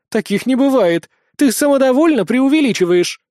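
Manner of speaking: high, loud, scornful protest; indignant disbelief. A narrator's reading. Witch accusing the boy of exaggerating, indignant disbelief. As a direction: fling the accusation back, outraged. Witch disputes the boy's boast.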